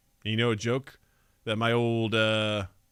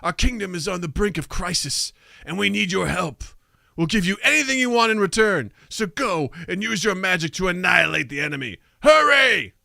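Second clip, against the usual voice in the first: pleading minister; 2 semitones higher, faster than usual. Acted.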